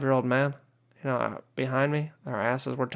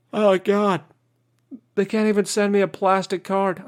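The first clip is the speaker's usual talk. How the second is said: louder, higher fed-up groan at the DMV; ranting vlogger fed up with DMV, exasperated and loud; exasperated outburst; 5 semitones higher, 5 dB louder than usual. Real, not acted. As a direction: vent it, throw your hands up. Exasperated rant at government.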